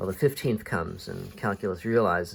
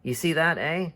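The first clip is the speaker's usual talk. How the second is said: exasperated captain, higher and louder at the start; fed up; 6 semitones higher, 4 dB louder than usual. Acted. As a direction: had it up to here, acted. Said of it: "Haddock has finally had enough with him".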